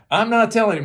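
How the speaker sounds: shouted emphasis on not; emphatic shout. Retold or imitated. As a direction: bark it out at them. Repeats quote with emphasis.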